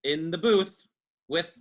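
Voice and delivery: hinting tone. Acted. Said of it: "Dylan changes his tone, trying to hint to Bingo he's in danger".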